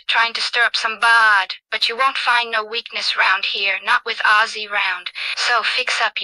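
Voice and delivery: regional British accent, lightly played; switched British accent. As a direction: play a British local warning off troublemakers. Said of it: "accent switch on".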